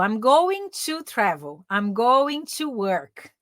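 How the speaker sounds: slow, drawn-out model sentences; slow demo. Shown as a demonstration. Teacher modelling going to slowly for students. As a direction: spell each word out slowly for the class. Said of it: "Mas pensa aqui que é o going to".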